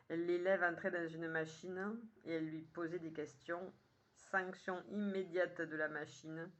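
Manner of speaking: measured poem reading with pauses between lines; poem recitation. Acted. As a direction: recite it line by line, clearly phrased.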